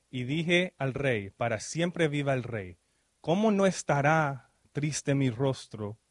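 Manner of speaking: slow, measured Bible reading; scripture reading. Acted. Preacher reading the verse to the congregation, slow and solemn. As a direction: read the verse with weight, unhurried. Reads Nehemiah's reply aloud.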